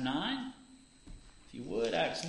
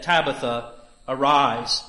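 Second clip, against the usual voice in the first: a louder call to rise; firm command; 11 dB louder than usual. Acted. Peter calling the dead woman back to life, firm command. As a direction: speak it out with authority.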